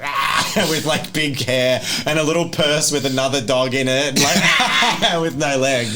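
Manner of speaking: laughing through a mock scream. Real, not acted. Game master describing the legless grandma, laughing. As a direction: cackle while describing the creepy lady.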